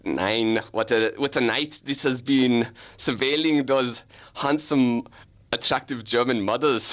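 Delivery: lightly put-on German accent; hint of a hammy German accent; German detective. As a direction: play an amateur German detective on surveillance. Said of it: "I'll play the German detective".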